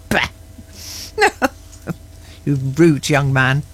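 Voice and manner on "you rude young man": mock scolding.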